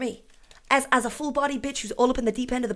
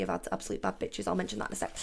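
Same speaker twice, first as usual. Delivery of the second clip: whispered aside; 5 semitones lower, 9 dB quieter, faster than usual. Real, not acted. Unvoiced aside.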